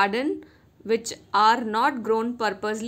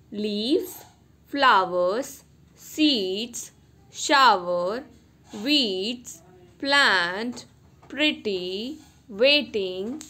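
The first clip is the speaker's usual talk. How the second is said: single words, evenly spaced with pauses; careful vocabulary-list reading; look-and-say word drill; much slower than usual. Shown as a demonstration. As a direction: read out each word separately for pupils. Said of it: "You have to look and say".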